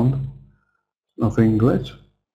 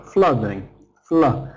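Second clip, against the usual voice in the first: "Flooding" stressed on FLUD, weak "ing"; strong first syllable. Shown as a demonstration. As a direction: hit the first syllable of "Flooding", then isolate it as "Fla". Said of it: "strong on the first syllable".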